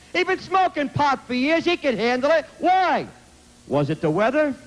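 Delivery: impassioned sermon cadence; preaching. Acted. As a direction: demand answers from the crowd. Impassioned questioning to the audience.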